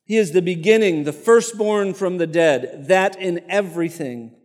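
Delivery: measured, lightly emphatic scripture reading. Acted. Preacher reading Colossians aloud to the congregation, measured and proclaiming. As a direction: read it out as a proclamation.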